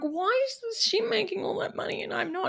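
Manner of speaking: mock-envious whisper; jealous whisper. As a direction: whisper it like a guilty secret. Retold jealous thought about peer.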